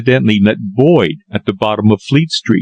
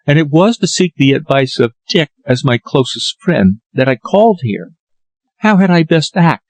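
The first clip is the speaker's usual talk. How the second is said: put-on lightly raised young woman's voice, earnest; a worried daughter explaining, a bit higher; gentle higher read for the young woman; Lily's voice; 4 semitones higher than usual. Lily asks advice.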